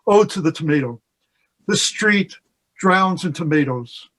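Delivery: measured free verse, often slow, short phrases; poetry reading. Acted. Poet reading a Neruda ode to an audience, measured and unhurried. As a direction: read it out a few words at a time. Reads a Neruda poem aloud.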